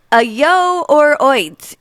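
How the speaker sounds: put-on slow, amateur British accent; regional British accent. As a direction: try a thick British dialect. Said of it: "American girl doing real bad accents".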